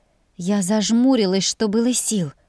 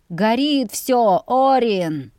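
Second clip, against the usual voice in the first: slow, higher-pitched cry of alarm; alarmed calling out; 4 semitones higher, 4 dB louder, much slower than usual. A narrator's reading. Tenant reporting the fire to Orin, calling out. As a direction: stretch the words out as a call. Tenant calls out at burning house.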